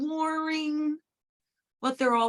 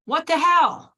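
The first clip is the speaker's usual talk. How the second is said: a quoted exasperated what the hell, a bit louder; quoted outburst; 4 semitones higher, 6 dB louder than usual. Retold or imitated. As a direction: toss it out like the baffled reader. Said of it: "I'll quote one person".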